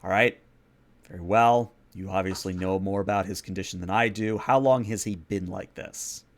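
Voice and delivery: lightly voiced gruff authority; a touch of gruffness, grudging concession; mildly gruff ruler giving ground; gruff prince. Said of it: "still in a very gruff tone".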